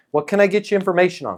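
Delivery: calm, relaxed, neutral, curious tone. Demonstrating the tonality of asking what information to provide, calm, neutral, curious. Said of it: "Calm, neutral, just out of curiosity, kind of a nice tonality".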